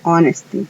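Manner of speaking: honesty said "onesty", H silent; English word honesty. Shown as a demonstration. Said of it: "la H ahí es muda". ("honesty" con H muda)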